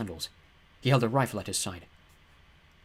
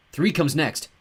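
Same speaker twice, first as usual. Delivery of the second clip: nervous; 5 semitones higher, 5 dB louder, much slower than usual. A narrator's reading. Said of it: "Walt said nervously".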